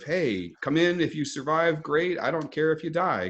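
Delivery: offhand mock welcome to expendable recruits; mock indifferent boss. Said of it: "that's that mentality of".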